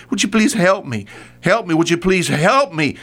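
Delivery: imitating a mother begging Jesus; begging woman. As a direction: beg for help like the desperate mother. Woman begging voiced in sermon.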